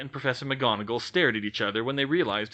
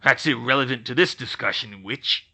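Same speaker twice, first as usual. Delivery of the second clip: growled; 5 dB louder than usual. Acted. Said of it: "he growled".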